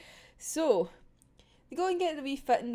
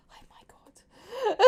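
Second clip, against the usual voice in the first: oh my god; 12 semitones higher, much slower than usual. Real, not acted. Reacting to cruel seamstress.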